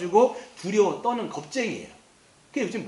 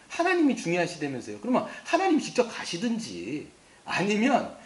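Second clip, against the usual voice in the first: whiny Moses; 2 semitones higher than usual. Acted. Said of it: "이렇게 얘기하는 거예요".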